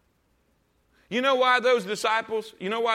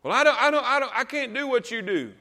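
mock excuse; 4 semitones higher than usual. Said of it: "You ain't tried".

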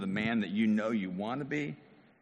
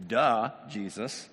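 put-on sarcastic kid; 2 semitones lower than usual. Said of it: "I don't like when my kids say this".

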